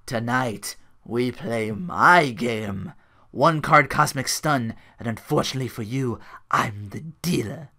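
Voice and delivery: slightly theatrical, measured delivery; lightly voiced villain, lingering on phrases; Stardust impression. Quoting a wrestler's promo, lightly theatrical and measured. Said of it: "Stardust earlier tonight says".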